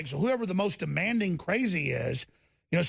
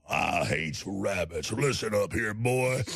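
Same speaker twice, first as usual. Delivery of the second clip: low, slow drawn-out country redneck voice; mock country redneck telling off a boy; 11 semitones lower, slower than usual. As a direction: lay on a thick redneck accent, deep and slow. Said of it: "'cause I can talk like a redneck".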